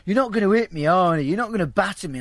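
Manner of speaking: panicky pleading. Retold or imitated. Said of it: "every now and then she kept going psycho".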